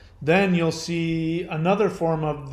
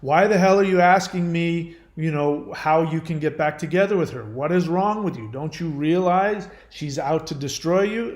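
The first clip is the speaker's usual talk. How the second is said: tough love; 4 dB louder than usual. Retold or imitated. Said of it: "give the tough love".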